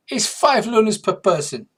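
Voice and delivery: high, loud creature trader; Morricanth voice. Acted. Morricanth sizing up the visitors, high and loud. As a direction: pitch it up and project in character. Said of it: "what accent I'm using for the, uh, Morricanth".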